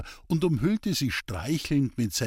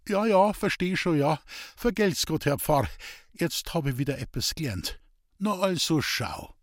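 higher, eager dialect voice, defensive; earnest simple woodcutter; 5 semitones higher than usual. Acted. Hans-Peter defending his street preaching to the priest, higher and earnest. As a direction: plead your case like a rough honest man.

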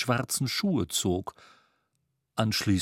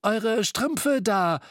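much higher, very slow pointed remark; Scrooge voice; 9 semitones higher, much slower than usual. A narrator's reading. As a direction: point at the socks. Scrooge hitting back.

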